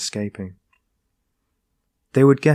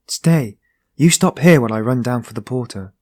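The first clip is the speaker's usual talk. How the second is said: raised urgent voice; urgent call; 7 dB louder than usual. Acted. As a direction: call out to stop him. Young man ordering companion.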